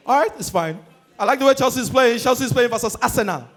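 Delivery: put-on singsong Benin accent; Victor Ikpeba. Pundit resuming his analysis, Benin accent. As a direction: carry on the commentary in a Benin accent. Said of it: "the custodian of the Benin accent".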